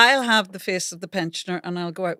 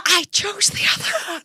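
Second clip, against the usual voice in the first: high, posh, prim reply; posh accent; 12 semitones higher than usual. Pretend. The young body answering in a posh accent. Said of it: "the whisper's the posher accent".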